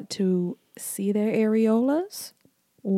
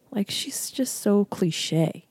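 slow, hushed aside; slow gossiping whisper; much slower than usual. Real, not acted. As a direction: whisper the catty remark slowly. Gossiping about the actress.

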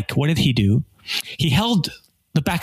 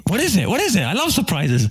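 put-on excited kid; 6 semitones higher than usual. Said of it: "And he said".

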